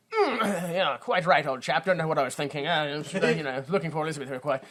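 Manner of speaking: lightly voiced British gent, hemming and hawing; flustered old-chap British impression; mock British accent. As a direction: bumble awkwardly in a put-on British accent.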